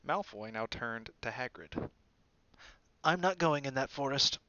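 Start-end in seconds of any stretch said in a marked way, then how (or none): 3.0-4.4 panic. A narrator's reading. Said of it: "the note of panic in his voice".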